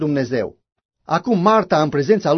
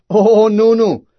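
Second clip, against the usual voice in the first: emphatic denial; 5 semitones higher, 6 dB louder, much slower than usual. Retold or imitated. His retort to a woman.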